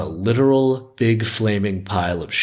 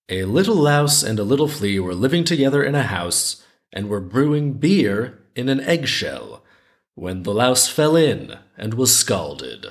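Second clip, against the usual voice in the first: measured folktale reading with lilting rises; story narration; 2 semitones higher than usual. A narrator's reading. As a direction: read it like a children's tale, lingering on phrase ends. Reads the folktale aloud.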